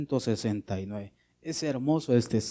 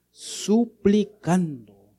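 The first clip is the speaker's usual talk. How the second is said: pleading tone; 6 semitones higher, 6 dB louder, much slower than usual. Shown as a demonstration. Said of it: "Dice la Biblia".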